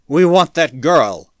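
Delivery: loud, slow, forceful demand; demanding shout. A narrator's reading. Mob leader demanding the girl, forceful shout. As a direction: shout each word as a demand.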